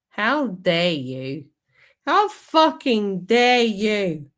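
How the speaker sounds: slow, outraged "how dare you" speech; mock-indignant climate activist scolding, drawn out; Greta Thunberg. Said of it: "I sound like Greta Thunberg".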